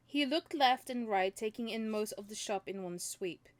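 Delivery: clear, lively audiobook reading; story narration. A narrator's reading. Reading a novel to listeners, story narration. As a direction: read the story out with animated dialogue.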